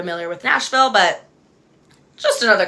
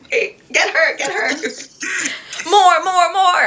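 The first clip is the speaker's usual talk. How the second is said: like Jag; 10 semitones higher than usual. Pretend. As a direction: egg them on like a rowdy hype friend. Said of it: "I'm sounding like Jag".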